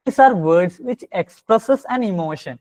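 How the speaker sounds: each word drawn out slowly for notes; slow dictation. Shown as a demonstration. Teacher dictating the definition to the class, very slow.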